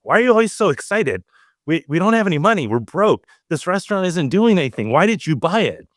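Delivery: a hint of a worried mother scolding; imitating mom. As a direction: play the fed-up wife grilling him. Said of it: "Mama asked me one time".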